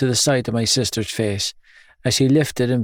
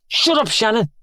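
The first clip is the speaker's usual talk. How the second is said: father voice; 11 semitones higher than usual. Acted. Father snapping at girl.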